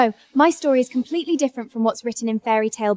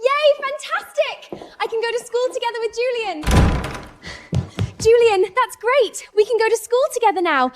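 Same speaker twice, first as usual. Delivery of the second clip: overjoyed; 11 semitones higher than usual. Acted. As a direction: celebrate going to school with Julian. Celebrating going to school.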